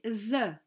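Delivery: the with tongue between teeth; th sound. Shown as a demonstration. Teacher shows the English th to the kids, slowly. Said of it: "avec la langue entre les dents".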